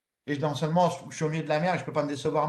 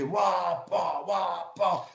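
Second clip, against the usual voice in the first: motor noise; much slower than usual. Retold or imitated. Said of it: "son petit bateau, il faisait".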